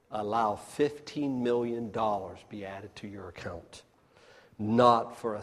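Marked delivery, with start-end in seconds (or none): 0.1-3.8 hushed whisper. Acted. Rhetorical question to congregation.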